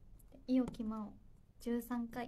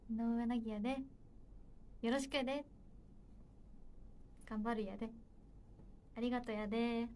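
hesitant, makeshift Kansai accent; attempted Kansai dialect; 3 dB quieter than usual. Shown as a demonstration. Idol answers a request to introduce herself, unsure Kansai dialect. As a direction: try a clumsy Kansai-dialect self-introduction. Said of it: "関西弁で自己紹介してください".

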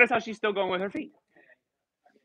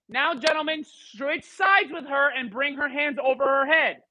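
called-out instruction; 4 semitones higher, slower than usual. Real, not acted. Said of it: "teacher calling instruction".

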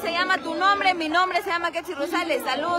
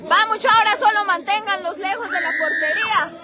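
shouting orders; 4 semitones higher than usual. Real, not acted. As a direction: yell to the team. Shouting at the team.

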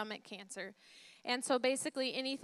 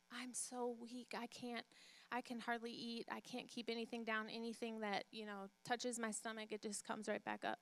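weak, faint voice; 10 dB quieter than usual. Retold or imitated. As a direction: fade to a frail near-whisper. Dying woman voiced in story.

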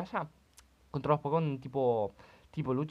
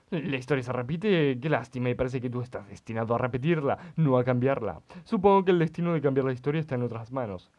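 solemn stranger; 6 dB louder than usual. Acted. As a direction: pronounce fate like a riddle. Reads NPC dialogue in voice. (desconocido solemne y algo lento)

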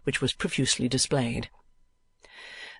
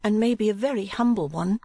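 higher-pitched gentle niece; young woman's meek voice; 9 semitones higher than usual. A narrator's reading. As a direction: lift the voice high for the pleading niece.

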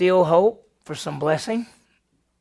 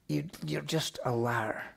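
quiet disgusted; 2 semitones lower, 10 dB quieter than usual. Real, not acted. Second take, softer.

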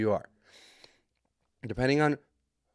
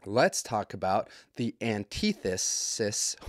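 slow, tripping over the words; stuttering; 2 semitones lower, slower than usual. Real, not acted. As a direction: stumble through it. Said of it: "Wow, stuttering".

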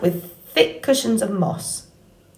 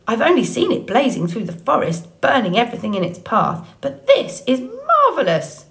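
awed beaver voice; 4 semitones higher than usual. Acted. The beaver speaks in awe.

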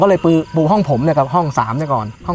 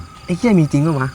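slow challenge. Retold or imitated. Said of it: "ลั่นวาจาออกไปเลย".

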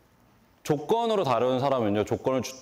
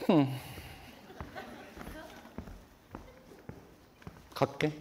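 quiet sulky goodbye; 9 semitones higher, 11 dB quieter than usual. Retold or imitated. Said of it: "이러는 거예요".

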